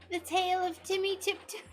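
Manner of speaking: high, laughing storybook announcement; giggling mock title. Real, not acted.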